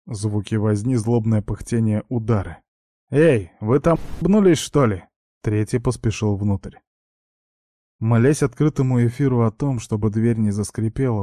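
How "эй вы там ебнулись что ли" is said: loud, higher rough yell; shouting. Acted. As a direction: yell at the brawling pair. Third thug yelling at fight.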